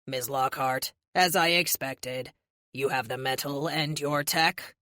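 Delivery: low, measured robotic villain; smooth and slightly slow menace; cold android leader. A narrator's reading.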